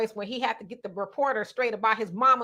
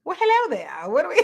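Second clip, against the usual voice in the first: higher-pitched imitation of an admirer; mock flirty greeting; 4 semitones higher, faster than usual. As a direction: playfully mimic their greeting, pitched up, breaking into laughter. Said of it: "y'all be like".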